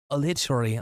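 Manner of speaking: "literally" as a clipped British "litch-rally"; badly faked British "literally"; mock British accent. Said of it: "that's a poor British accent".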